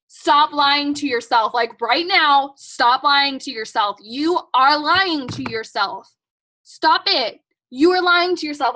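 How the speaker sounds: slow, insistent telling-off; real exasperated tough love; emphatic scolding. Real, not acted. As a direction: call them out firmly, word by word. Scolding viewers who claim no time.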